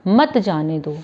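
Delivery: "मत" stressed, running on into "जाने दो"; "मत जाने दो" as one phrase after a pause; मत joined to जाने दो. Shown as a demonstration. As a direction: lean on "मत" and carry straight on to "जाने दो". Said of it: "comma".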